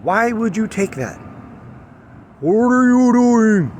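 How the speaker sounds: high, drawn-out disbelieving cry; exasperated outburst. Real, not acted. Vlogger questions the taking of the necklace, exasperated high wail. Acted outburst, then apologises to viewers.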